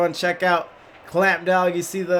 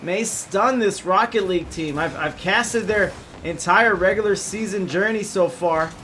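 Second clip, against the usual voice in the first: play-by-play. Acted. Live play-by-play casting.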